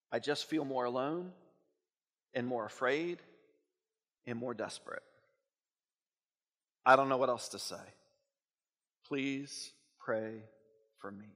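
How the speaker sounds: low, hushed, with long pauses; quiet despair. Acted. Reads aloud a desperate note.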